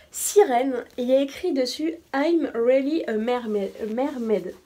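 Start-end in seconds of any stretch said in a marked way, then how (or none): 2.1-4.5 English read with a strong French accent; self-mocking French accent in English; cheap French accent. Shown as a demonstration. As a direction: say "I'm really a mermaid" the French way, r from the throat. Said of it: "avec mon accent, euh, à deux balles".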